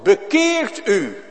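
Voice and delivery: high, loud and slow; solemn ringing command; scripture command. Acted. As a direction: proclaim it as God's own word. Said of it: "Dat staat in het woord".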